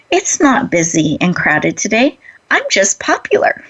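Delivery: lightly voiced cheerful checkout lady; warm, smiling. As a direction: retell a friendly quip with a smile, lifting at the end. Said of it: "smiles in a warm way".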